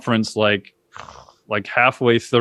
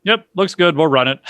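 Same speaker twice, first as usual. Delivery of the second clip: higher, bright quick yes that ends in a shout; casual approval; 6 semitones higher, 3 dB louder than usual. Retold or imitated. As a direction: toss off the okay like it's no big deal. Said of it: "he looked at it and he goes".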